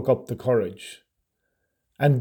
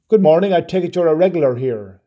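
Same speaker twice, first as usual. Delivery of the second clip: put-on English accent; 3 semitones higher, 4 dB louder than usual. A narrator's reading. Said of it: "she said in a voice that wasn't local".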